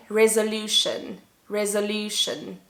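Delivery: "resolution" repeated carefully with stress on LU; model for listening. Shown as a demonstration. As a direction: say "resolution" clearly for learners to hear the strong LOO. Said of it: "Let's listen again".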